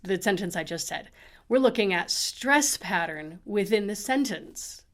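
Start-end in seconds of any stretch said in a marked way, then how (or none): 1.5-4.8 we're punched at the front; we're stressed, the rest light. Shown as a demonstration. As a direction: hit the word we're. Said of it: "Even if I look at the".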